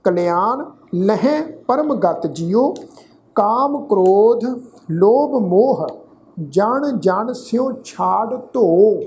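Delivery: slow, measured Gurbani recitation; scripture recitation. Acted. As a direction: recite each phrase deliberately, with pauses and drawn-out vowels. Recites scripture between explanations.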